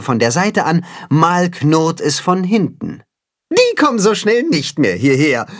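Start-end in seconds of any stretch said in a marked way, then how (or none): 3.5-5.5 a lightly voiced pleased boast, higher. A narrator's reading. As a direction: glad relief. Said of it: "freut sich Timme".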